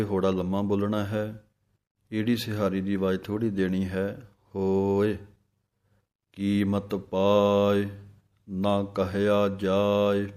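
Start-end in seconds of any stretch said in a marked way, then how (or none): 6.3-10.3 ਕੀਮਤ ਪਾਇ, a pause, then ਨਾ ਕਹਿਆ ਜਾਇ; pause after ਪਾਇ. Shown as a demonstration. Teacher showing the pause after ਪਾਇ. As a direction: break after ਪਾਇ and say the rest slowly. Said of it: "ਪਾਇ ਇੱਥੇ ਵਿਸਰਾਮ ਹੈ".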